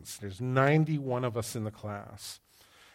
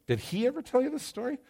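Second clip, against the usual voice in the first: mimicking friend; 11 semitones higher, faster than usual. Mimicking colleague asking audience.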